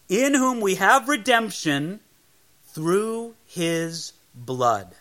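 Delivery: verse read out, drastically slowing to the end; solemn scripture reading. Acted. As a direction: let the last words fall slow and weighty.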